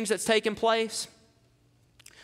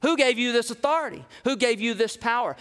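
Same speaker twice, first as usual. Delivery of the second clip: sharp, scornful questioning, a bit higher and quicker; accusing the apostles of overreach; hostile interrogation; 5 semitones higher than usual. Shown as a demonstration. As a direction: demand it like an accusing council. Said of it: "This is not a peaceful inquisition".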